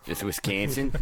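Wisconsin with "can" as in "can't", rising as a question; echoed pronunciation. Retold or imitated. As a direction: query it back, middle syllable of Wisconsin like "can". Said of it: "I need to make a correction".

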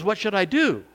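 upset plea. Retold or imitated. Upset man begs pastor for advice.

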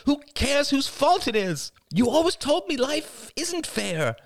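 heated character argument. Acted. Niece and aunt quarrelling over blame, exasperated. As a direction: spit out the frustration. Rachel and Crystal argue.

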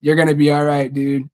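put-on calm a scared kid inside; reassuring younger self. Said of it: "tapped on my own shoulder and be like".

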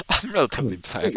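tickled by the claim; amused. Real, not acted. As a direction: say it through amusement. Repeats it after a laugh.

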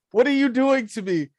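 high-pitched, baffled protest, slowing at the end; hammed-up confusion, drawing out the last words; mock bewilderment. Viewer reacting to Tom Hanks's odd accent, mock bewildered.

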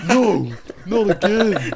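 drawn-out high wail; slow high whine. Acted. Uncle pleading in scene.

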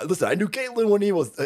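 half-hearted impersonation, soon abandoned; Donald Trump. Retold or imitated. Retelling the answer about Caitlyn, half-hearted impression. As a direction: attempt a rough, lightly voiced politician impression. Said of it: "I can't do a Donald Trump impress".

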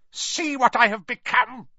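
an evil face speaking from the back of a head; sinister face voice. A narrator's reading. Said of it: "the face said".

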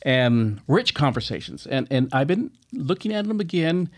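talking around a mouthpiece; mouthpiece in mouth. Real, not acted. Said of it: "I'm talking funny".

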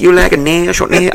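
high put-on Asian accent; hammed-up salon worker offering nails; mock nail technician. Mimicking a nail salon worker, mock accent.

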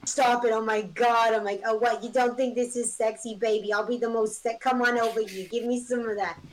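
mock Jersey accent. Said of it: "that accent".

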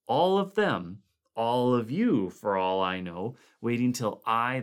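sickly uneasy fear. Acted. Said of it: "in a sickly grin".

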